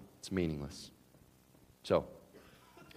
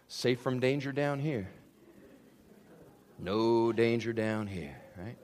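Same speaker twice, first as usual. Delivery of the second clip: slow, muffled smug ostrich with its head in the sand; 2 semitones lower, slower than usual. Retold or imitated. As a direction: drawl it out like a head buried in sand.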